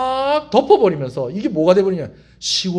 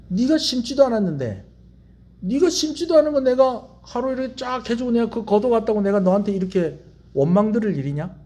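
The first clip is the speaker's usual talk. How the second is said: lightly voiced God, raised pitch, remonstrating; God's rebuke; 3 semitones higher than usual. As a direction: reproach as God answering a complaint. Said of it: "하나님께서 뭐라고 얘기하시느냐". (하나님이 따져 묻듯 높인 목소리)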